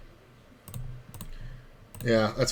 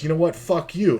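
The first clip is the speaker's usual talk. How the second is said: higher, heated retort; mock angry outburst; 6 semitones higher than usual. Old man retorting to the floor manager, in a mock angry outburst. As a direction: snap it back at him, hammed up.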